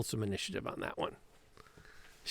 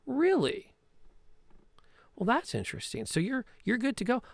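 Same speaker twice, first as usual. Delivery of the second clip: knowing thug; 10 semitones higher than usual. Acted. Thug answers Petra in code, high and knowing. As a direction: play along with the secret code. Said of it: "He goes".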